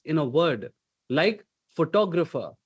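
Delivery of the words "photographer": PHOTOGRAPHER stressed on TOG; pho-TOG-rapher, second syllable accented. Shown as a demonstration. Coach gives an example of accentuation, syllable stress. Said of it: "you stress on certain syllables".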